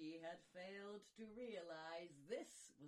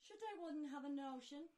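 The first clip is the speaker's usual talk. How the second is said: Snow White voice; 2 semitones higher, 13 dB louder than usual. Acted. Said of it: "In dulcet tones the girl responded".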